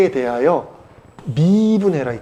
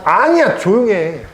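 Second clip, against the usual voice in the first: loud, high-pitched teacher's rebuke; real sharp hushing; 4 semitones higher, 5 dB louder, slower than usual. Real, not acted. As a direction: cut off the interruption, louder and higher. Teacher hushes someone interrupting the lesson. (높고 큰 소리로 조용히 시키기)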